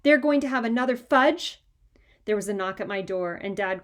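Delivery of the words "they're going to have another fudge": outraged disbelief. A narrator's reading. Boy outraged at news.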